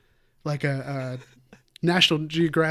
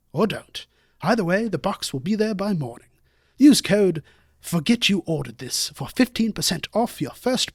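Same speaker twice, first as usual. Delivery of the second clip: lightly put-on British documentary narration; measured British narrator reading an ad; David Attenborough. Co-host reading a sponsor ad on request, mock British naturalist. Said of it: "a really good Attenborough".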